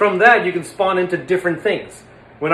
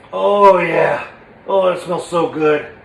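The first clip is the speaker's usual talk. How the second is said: pleased sniff; 4 dB louder, slower than usual. Shown as a demonstration.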